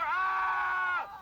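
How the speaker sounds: very high, loud, sustained scream; all-out open-throated yell; full scream. Shown as a demonstration. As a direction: scream beyond yourself. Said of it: "scream beyond yourself".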